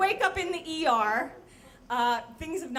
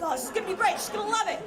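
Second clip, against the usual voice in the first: higher-pitched happy self-talk; mock glee; 7 semitones higher, 3 dB louder, faster than usual. Narrator making Grace a card while driving, mock glee. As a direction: act out oblivious delight.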